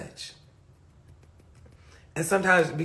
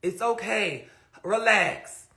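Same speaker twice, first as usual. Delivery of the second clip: slow, softer calming voice; imitated soothing mom; 2 semitones higher, 5 dB quieter, slower than usual. Mom telling worked-up child to relax, gently soothing. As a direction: ease them down, drawing out the words. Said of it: "She'd be like".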